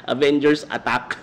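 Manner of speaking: laughing mock command. Shown as a demonstration. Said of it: "Dapat sabi niya".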